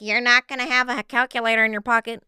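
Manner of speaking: hammed-up teacher warning; stern teacher. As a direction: lecture the class like a smug teacher. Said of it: "teacher's like".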